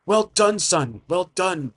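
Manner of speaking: a father bursting with proud joy at the news; excited father. Acted. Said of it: "laughs with excitement".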